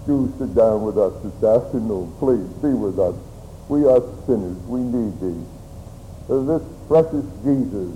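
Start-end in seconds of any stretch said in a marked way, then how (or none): 0.1-5.4 lower, subdued pleading prayer. Real, not acted. Turns to pray to Lord.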